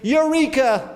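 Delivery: a little fish crying out with a eureka; excited shout. A narrator's reading. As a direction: shout it out like a sudden bright idea. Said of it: "suddenly he shouted".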